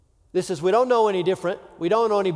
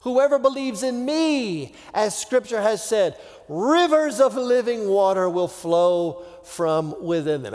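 higher, proclaiming call to the crowd; loud voice; 4 semitones higher than usual. Retold or imitated. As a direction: call it out to the festival crowd, pitched up. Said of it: "Jesus stood and said in a loud voice".

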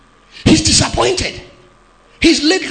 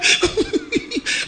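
mocking laugh; 10 semitones higher, 4 dB quieter than usual. Mocking the quoted believer.

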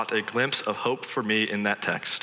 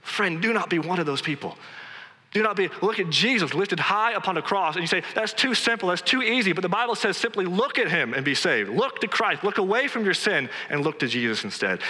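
higher-pitched, urgent exhortation; fervent preaching; 7 semitones higher than usual. Real, not acted. Preacher urging the congregation to look to Christ, fervent. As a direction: preach it with rising fervour.

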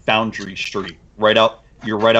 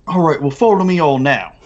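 put-on British accent; 5 semitones higher than usual. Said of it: "and he's like".

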